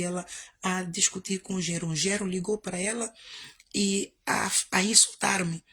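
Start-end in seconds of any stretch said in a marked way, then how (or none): none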